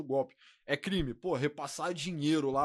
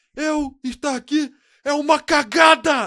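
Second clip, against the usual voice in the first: shrill, booming, very high, very loud, slow dragged-out shouting; 12 semitones higher, 14 dB louder than usual. Retelling a leaked meeting recording, imitating Bolsonaro shouting. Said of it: "ele gritando".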